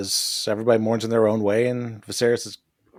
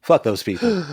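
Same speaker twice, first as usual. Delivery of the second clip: emphatic outburst; 5 semitones higher than usual. Acted. Host repeats the curse at those people, now an emphatic outburst. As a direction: say it again with full conviction.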